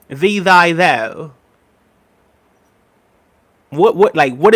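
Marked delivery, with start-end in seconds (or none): 0.1-1.3 mock Shakespearean. Shown as a demonstration. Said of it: "they used to speak so poetic".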